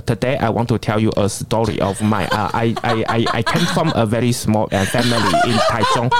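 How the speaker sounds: put-on halting English with a Taiwanese accent, laughing; nervous Taiwanese accent English. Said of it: "可是他这样子". (台湾腔英语)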